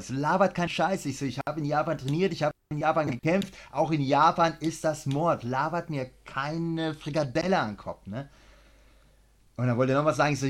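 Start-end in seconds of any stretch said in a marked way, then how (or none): 0.1-8.1 higher, worked-up retold rant; heated. Coach retelling how he snapped at the students. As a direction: snap back at them, hot under the collar. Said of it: "ich wurde schon echt laut".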